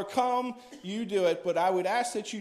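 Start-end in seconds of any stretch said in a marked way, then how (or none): 0.0-0.6 holler. Shown as a demonstration. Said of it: "you wanna just holler".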